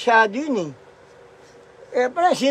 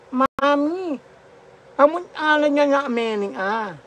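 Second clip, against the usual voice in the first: slurred cleft-palate speech, lightly raised; mock Ngongo voice; 4 semitones higher than usual. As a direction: imitate the Ngongo child calling home, slurring. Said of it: "yung kwento ni Ngongo".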